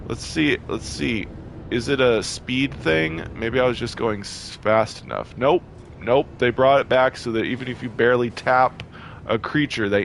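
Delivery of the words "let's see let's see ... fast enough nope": normal talking voice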